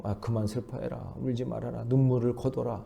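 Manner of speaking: a soft, casual "stop crying" from bystanders; worldly people's voice. Retold or imitated. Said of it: "세상 사람들의 소리로".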